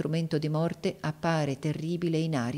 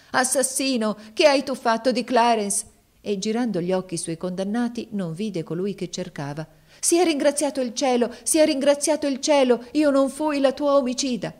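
high, loud frantic cry; 7 semitones higher, 5 dB louder than usual. Acted. Woman at the cart cries out, high and loud. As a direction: cry out in relief and fury.

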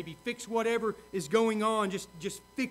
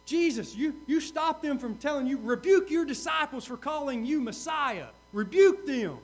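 raised, insistent mock rebuke; lightly acted higher-pitched reprimand; stern demand; 4 semitones higher, 4 dB louder than usual. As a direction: demand it as an indignant objector. Acts out Pharisees demanding a rebuke.

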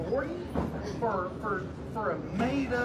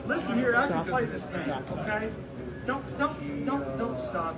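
loud heated insistence; yelling; 9 dB louder than usual. Real, not acted. Passenger shouting at airport officer to let him answer, loud. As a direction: shout over him, demand to be heard.

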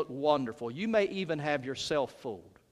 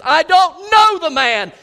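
much louder and higher, slow furious oath; cursing denial; 11 semitones higher, 15 dB louder, slower than usual. Acted. Peter cursing as he denies Jesus to the slave girl, furious shout. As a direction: spit out the denial with a curse. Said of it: "he curses and says".

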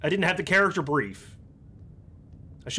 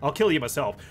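ordinary delivery

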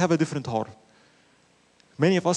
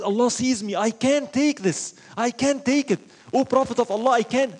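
pleading confession; 5 semitones higher than usual. Retold or imitated. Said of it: "and they were telling".

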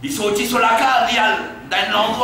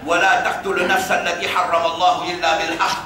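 Quran recitation; 3 semitones lower, much faster than usual. Acted. Recites Quran verse fast.

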